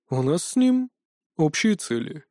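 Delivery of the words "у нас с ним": calm. Acted. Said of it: "спокойно ответил Анубис".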